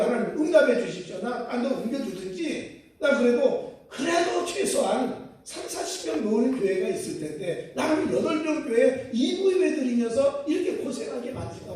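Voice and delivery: fast, half-laughing complaint; mock-grumbling plea to be moved; angry prayer. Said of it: "다시 화를 내면서 기도를 했다는 거예요". (웃음 섞인 가벼운 불평 기도)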